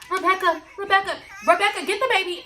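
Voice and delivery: high, urgent calling out to Rebecca; mock frantic call. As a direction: yell for the baby in staged panic. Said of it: "I'm about to set the scene".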